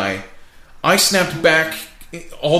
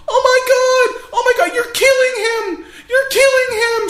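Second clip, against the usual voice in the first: mock scream. Woman at the bar screaming at a brawl, high mock shriek. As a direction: shriek like a frightened woman at the next table. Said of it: "She's screaming, literally screaming murder".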